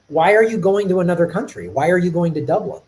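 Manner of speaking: acted-out baffled questioning; incredulous challenge. Chicagoan challenging his mayor's trip abroad, incredulous. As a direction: press the point in mild disbelief.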